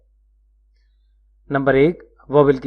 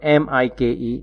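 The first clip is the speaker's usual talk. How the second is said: slow spelling; 3 dB quieter, slower than usual. Shown as a demonstration. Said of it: "जब syllable में एक नहीं दो वोवेल्स हों".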